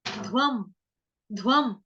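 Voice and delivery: ध्वम with ध and व joined; pronunciation demo. Shown as a demonstration. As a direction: blend ध्वम as one syllable. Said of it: "उसके बाद ध्वम".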